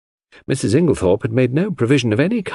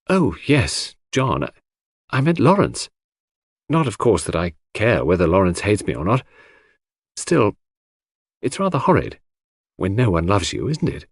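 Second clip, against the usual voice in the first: put-on slightly raised young woman's voice, mildly forlorn; hurt Cynthia. Cynthia admitting she feels unloved, mildly hurt. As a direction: confide it haltingly, a touch hurt.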